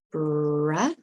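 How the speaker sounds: "bra" with a drawn-out r and short uh; sounded-out syllable. Shown as a demonstration. Teacher showing how we pronounce brother, first syllable drawn out. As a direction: roll slowly into "bra", ending on uh. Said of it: "We pronounce it".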